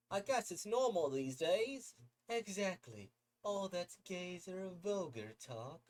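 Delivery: upbeat friends praising, bright and high; high excited crowd voices; lively party characters. Acted.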